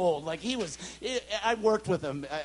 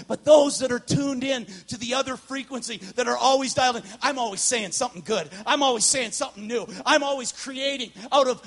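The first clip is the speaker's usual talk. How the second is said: louder, lightly prophetic God voice; voice of the Lord; 4 semitones higher, 5 dB louder than usual. Retold or imitated. The Lord speaks to the preacher, lightly prophetic. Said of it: "the Lord speaks to me and says".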